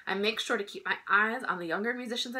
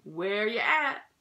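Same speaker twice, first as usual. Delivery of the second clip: slow, higher proud big-brother call; proud introduction; 5 semitones higher, slower than usual. Acted. James proudly introducing his little brother. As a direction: show off your little brother. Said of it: "he'd proudly say".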